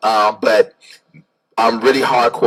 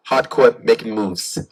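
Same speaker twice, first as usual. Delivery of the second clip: hardcore tough line; slower than usual. Shown as a demonstration. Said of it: "can you say it".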